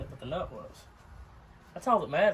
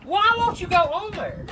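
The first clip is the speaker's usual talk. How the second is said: much higher, whiny plea to the stuck part; whining; 13 semitones higher, 5 dB louder than usual. Real, not acted. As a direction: whine at the part that won't budge. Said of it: "as I'm whining".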